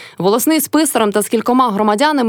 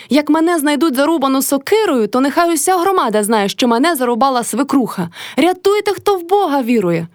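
wailing for help; 6 semitones higher than usual. A narrator's reading. Motria wailing to the village elder and clerk. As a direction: cry it out for all to hear.

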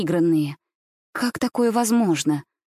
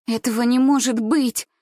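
desperate denial; 4 semitones higher than usual. Acted. Gulya refusing to believe the dog ran off, crying out.

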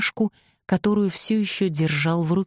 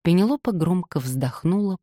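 ordinary delivery, nothing marked

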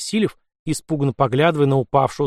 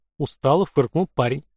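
plain reading voice

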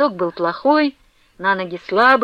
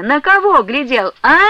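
furious shout; 5 semitones higher, 5 dB louder than usual. A narrator's reading. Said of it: "неистово лютуя кричала Устинья".

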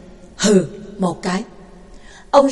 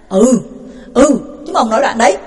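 angry jeering; faster than usual. Acted. Kids chanting to beat jailer.

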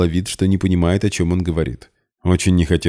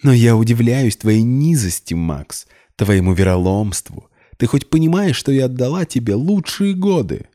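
shrieking; 7 semitones higher, 3 dB louder than usual. A narrator's reading. Polina keeps shrieking. (взвизгнула, очень высоко)

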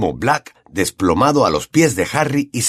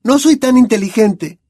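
whispered Hermione; 13 semitones higher, 4 dB louder than usual. A narrator's reading. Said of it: "susurró Hermione".

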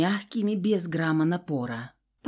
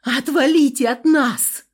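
higher, louder angry shout; 6 semitones higher, 8 dB louder than usual. A narrator's reading. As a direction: yell them away. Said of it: "закричала им".

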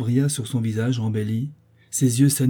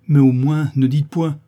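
louder, higher-pitched protest; agitated reproach; 3 semitones higher, 7 dB louder than usual. A narrator's reading. Sophie tells her lover to stop his vows, agitated. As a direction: break in with an urgent reproach.

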